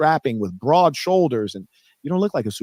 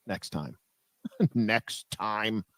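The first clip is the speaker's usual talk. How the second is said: laughing dismissal; 4 semitones lower, 9 dB quieter, much slower than usual. Real, not acted.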